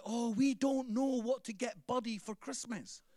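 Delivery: a light put-on voice for the owners; imitating the owners. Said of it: "they're like".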